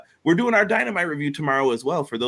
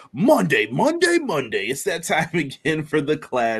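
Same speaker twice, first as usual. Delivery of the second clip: monster truck announcer; 3 semitones higher than usual. Acted. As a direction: sell it like a stadium ad. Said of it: "Monster truck announcer voice".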